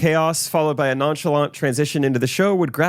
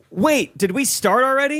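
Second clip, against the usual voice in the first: panicked; 9 semitones higher than usual. Acted. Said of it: "in a panicked voice".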